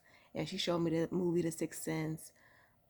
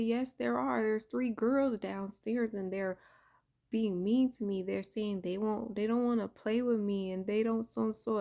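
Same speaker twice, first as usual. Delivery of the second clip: put-on upset little girl; 4 semitones higher, 3 dB louder than usual. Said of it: "I just started crying".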